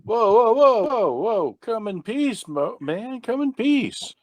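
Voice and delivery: alarmed placating. Acted. Visitor to a startled man with a pistol, alarmed placating. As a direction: back someone down with high, hurried pleas.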